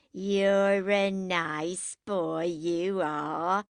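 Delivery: very slow, drawn-out sleepy drawl; yawning. A narrator's reading. Drunken Jackie fondly teases Henry, yawning. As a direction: stretch the vowels through a mock yawn. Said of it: "she yawned".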